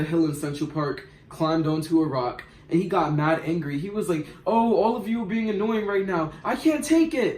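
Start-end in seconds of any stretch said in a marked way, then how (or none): 4.5-7.4 higher, mock-dramatic complaint rising at the end; dramatic boyfriend. Boyfriend yells at the arguing friends, higher and mock-dramatic. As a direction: ham up the fed-up boyfriend. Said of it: "he got dramatic".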